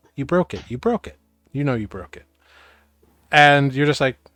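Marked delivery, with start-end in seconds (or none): 0.2-2.3 very soothing, gentle, calming voice. Game master voicing an unseen voice speaking inside the players' heads, very soothing voice. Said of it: "this very soothing voice".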